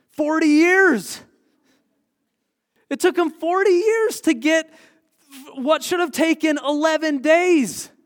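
loud, high, drawn-out outburst of disbelief; emphatic exclamation. Real, not acted. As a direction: cry it out slowly to the whole room. Preacher exclaims over the long delay.

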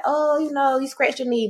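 high-pitched, fussing parent voice; coddling parent. Acted. Parents to a child hurt falling off a bike, coddling. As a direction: coo over a small scrape, high. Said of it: "they gonna be like".

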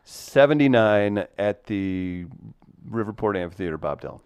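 big start, slowing and dropping to the name; mock concert announcer. Host introducing a singer's live show, mock announcer voice. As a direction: introduce the act like a stage announcer.

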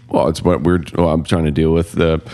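words through a burp; talking while burping. Real, not acted. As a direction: speak mid-burp. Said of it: "I'm burping here".

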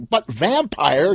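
high, slow plea; mock desperate shout; pleading yell. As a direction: beg him not to go. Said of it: "yelled Stan".

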